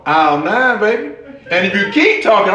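usual speaking voice

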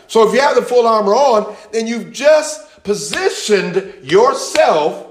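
high, drawn-out fervent preaching. Real, not acted. Preacher rousing the church to stand, fervent. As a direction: stretch the words, voice up high.

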